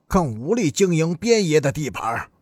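lightly voiced underworld boss laying down rules; stern gang boss. Gang boss warning the other bosses over the turf, stern.

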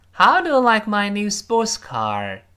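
How high and loud, falling at the end; falling question. Shown as a demonstration. Teacher models the question with a falling end. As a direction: lead with How, fall at the end. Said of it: "特殊疑问句最后降调哦".

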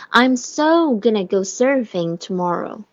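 slow model sentence, SO drawn out; stress on SO. Shown as a demonstration. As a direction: stretch "so" for emphasis. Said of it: "是一个重读的啊".

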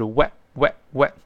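weh starting from rounded lips; demonstrated W plus short eh. Shown as a demonstration. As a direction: repeat weh separately, pushing W from the lips. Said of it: "W是双唇碰撞发喔".

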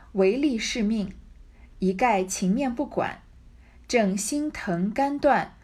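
put-on slow, measured storyteller reading of old text; classical novel reading. A narrator's reading. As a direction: read the classic passage with weight. Reads classic novel text aloud. (缓慢庄重的古典小说朗读)

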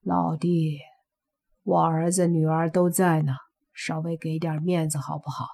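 put-on the father whispers to the young man so his children won't hear; whispered plea. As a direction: lean in and ask quietly for a favour. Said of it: "小声说".

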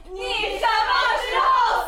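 put-on child's question. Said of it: "她的孩子总是问她".

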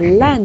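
lan with a sharp falling fourth tone; wrongly stressed syllable. Shown as a demonstration. Teacher warns against stressing lan, fourth tone. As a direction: hit lan as if it carried the stress. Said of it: "你不能把lan读成四声".

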